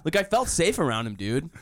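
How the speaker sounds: laughing mock of the line; mock it through a laugh. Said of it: "that line is so perfect".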